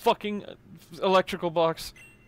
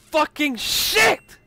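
pained cry; 8 semitones higher, 7 dB louder, much slower than usual. Acted. Character in pain after bite.

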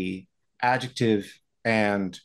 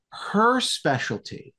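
dramatic teaser; 9 semitones higher, slower than usual. Shown as a demonstration. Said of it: "ready? Hang on tight. Here it comes".

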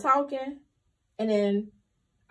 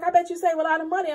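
quick, higher-pitched admiration; excited stranger; 4 semitones higher, faster than usual. Retold or imitated. Excited lady chatting to a couponer, eager and quick. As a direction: retell a shopper's eager remark, fast. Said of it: "She was so excited".

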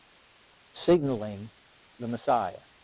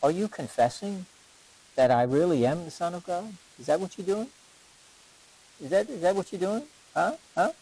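higher, teasing, slyly probing; a sly, higher insinuating question; 4 semitones higher than usual. Retold or imitated. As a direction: lean in and needle them. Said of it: "he's slyly saying".

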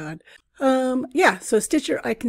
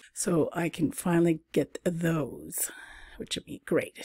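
whispered aside; 6 dB quieter than usual. Real, not acted. Trailing private aside.

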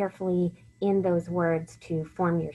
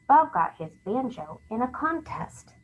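excited reading, pitched higher; 5 semitones higher than usual. Shown as a demonstration. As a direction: read it as if it ends in an exclamation mark. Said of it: "Maybe we're excited this time".

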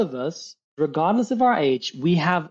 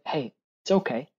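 softer, soothing tone; super kind; 2 semitones lower, 5 dB quieter than usual. Shown as a demonstration. Coach showing how to talk to little Josh, kindly. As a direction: ease off and reassure gently. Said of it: "to be super kind to yourself".

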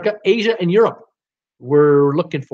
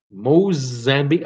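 Mozambique said slowly and lower, testing the word; turning the guess over slowly; slow repeat; 3 semitones lower than usual. Shown as a demonstration. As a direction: drag out Mozambique, mulling it over.

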